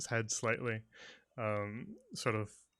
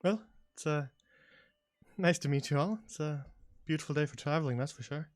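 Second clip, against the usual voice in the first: higher-pitched, amiable country farmer; friendly elven farmer; 4 semitones higher than usual. Acted. Elven dog owner greets passing travellers, friendly. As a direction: chat pleasantly as a local farmer.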